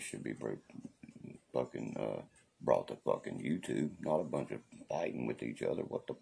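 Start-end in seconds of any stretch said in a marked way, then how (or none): none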